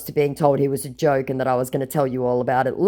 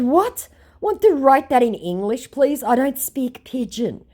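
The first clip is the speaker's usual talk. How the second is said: haughty; 11 semitones higher than usual. Retold or imitated. Own reply, high.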